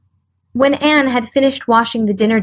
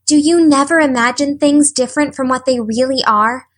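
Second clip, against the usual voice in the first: wide-eyed; 4 semitones higher than usual. Acted. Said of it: "asked Anne, wide-eyed".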